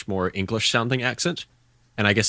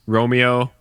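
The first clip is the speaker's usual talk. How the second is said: Kiwi accent; 3 semitones higher, 4 dB louder than usual. Shown as a demonstration. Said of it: "give me a word".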